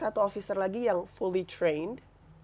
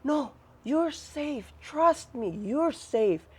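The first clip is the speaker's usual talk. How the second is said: retold slow, drawn-out reassurance; 4 semitones higher, much slower than usual. Officer reassuring her she is safe, slow retold reassurance. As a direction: stretch each word, imitating someone reassuring her.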